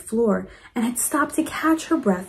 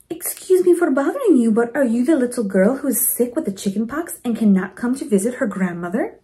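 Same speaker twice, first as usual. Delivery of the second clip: Mama Provi voice; 2 semitones higher, faster than usual. Acted. Mama Provi asks Lucy.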